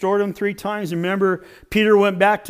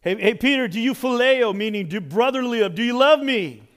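raised, pressing voice; insistent question; 3 semitones higher than usual. Retold or imitated. Jesus pressing Peter with the repeated question, insistently. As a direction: press him for an answer.

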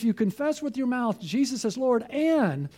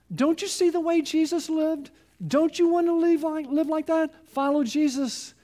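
higher, pleading voice of the Spirit; urging Holy Spirit; 6 semitones higher than usual. Retold or imitated. Preacher voicing the Spirit urging the youth: higher, pleading. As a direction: coax them, lightly voiced as the Spirit.

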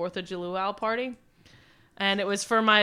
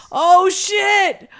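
much higher, louder alarmed cry; panicked surprise; 10 semitones higher, 10 dB louder, much slower than usual. Retold or imitated. Friends learning the drunk girl's mom may find out, alarmed. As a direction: yelp in alarm.

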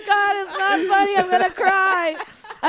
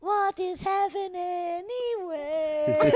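laughing; 3 semitones higher, 4 dB quieter, much slower than usual. Real, not acted. Laughing fit over joke.

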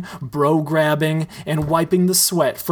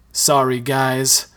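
choked up; slower than usual. Acted. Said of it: "Mike chokes".

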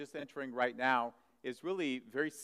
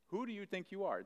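higher repeat; 7 semitones higher than usual. Shown as a demonstration. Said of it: "the question".

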